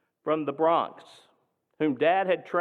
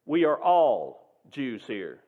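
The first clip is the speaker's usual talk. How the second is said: calm declaration; 4 dB louder, slower than usual. Retold or imitated. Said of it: "my father calmly declared".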